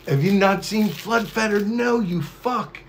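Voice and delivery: high squeaky mock chatter voice.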